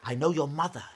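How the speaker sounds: loud, urgent cry; spring up and call it out forcefully; cried out. A narrator's reading. Stranger confronting the princess, crying out loudly. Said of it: "the stranger sprang up and cried out".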